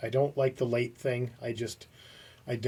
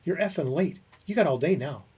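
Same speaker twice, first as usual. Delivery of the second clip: imitated boss, mildly sarcastic reproach; pissed, not yelling; 3 semitones higher than usual. Boss to twenty-minutes-late employee, pissed but not yelling. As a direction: make the dig without shouting. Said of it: "he's just not yelling at me".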